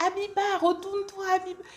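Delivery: appel aigu à travers la foule; héler quelqu'un de loin. Retold or imitated. La personne insiste en l'appelant. (appeler fort, voix haute, dans la rue)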